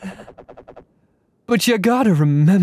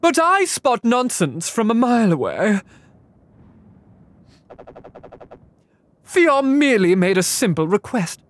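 character voice; 4 semitones higher than usual. Acted. Voicing game character lines.

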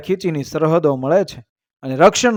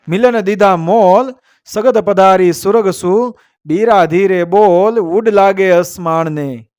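measured, metrical couplet delivery; verse recitation; 3 semitones higher, slower than usual. A narrator's reading. Storyteller reciting a couplet to listeners, verse recitation. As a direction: recite it as an old heroic verse.

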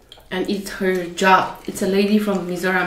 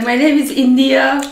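louder, proud mistaken line; mock mistaken introduction; 5 semitones higher, 6 dB louder than usual. Colleague's blunder at the table, mock-proud. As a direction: deliver the blunder with confidence. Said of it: "But she's like".

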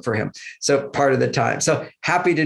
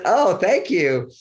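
charmed thank you; 5 semitones higher, much slower than usual. Retold or imitated. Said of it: "I've heard that tone of voice".

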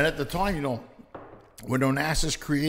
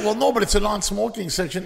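indignant passenger; 7 semitones higher, 5 dB louder than usual. Retold or imitated. Passenger protests the smoking.

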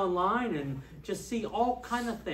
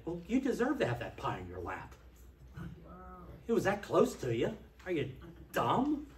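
blunt prophet. Retold or imitated. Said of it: "The prophet would say".

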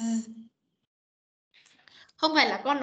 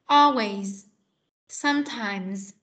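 read gently; 3 semitones lower, much slower than usual. Shown as a demonstration. Teacher modelling a light final z for a student. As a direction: say it gently, with no heavy z. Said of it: "con đọc nhẹ nhàng thôi".

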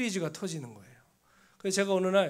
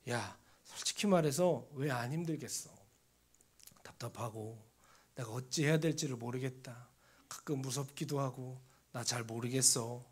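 softer and lower, worn out; tired, hushed confession; 6 semitones lower, 6 dB quieter than usual. Retold or imitated. Pastor admitting his struggles to his former student, hushed and weary. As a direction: let the honesty drop into a near whisper.

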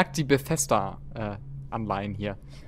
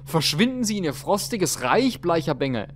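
stuttering; 5 semitones higher, 4 dB louder than usual. Acted.

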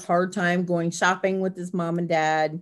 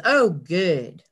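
a short, slightly louder imitation of the boy; imitating grandson again; 3 dB louder than usual. Grandmother lightly imitates grandson's short reply. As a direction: lightly voice the grandson's brief approval. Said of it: "Like that".

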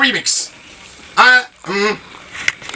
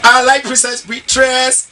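slow lyric; 4 semitones higher, 3 dB louder, slower than usual. Shown as a demonstration. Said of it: "I have to say it twice".

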